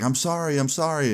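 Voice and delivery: lightly voiced pleading girlfriend; retold girlfriend's apology.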